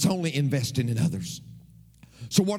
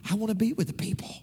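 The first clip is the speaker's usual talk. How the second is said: whisper; 4 semitones higher, much faster than usual. Retold or imitated. Quoting himself to his hosts.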